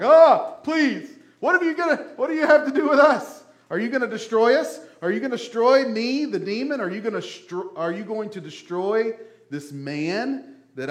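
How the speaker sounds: high, loud panicked pleading that fades toward the end; panicked demons. Retold or imitated. Demons pleading with Jesus not to destroy them, frantic high begging. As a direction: beg Jesus like a cornered demon. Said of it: "the demons are like".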